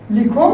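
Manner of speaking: लिखो set apart, then a stop; लिखो held off as its own phrase; pause after लिखो. Shown as a demonstration. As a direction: say लिखो alone and halt before मत पढ़ो. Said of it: "रुक गए हम लोग".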